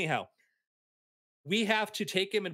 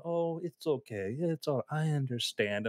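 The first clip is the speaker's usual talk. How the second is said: soothing. Retold or imitated. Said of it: "just soothing voice".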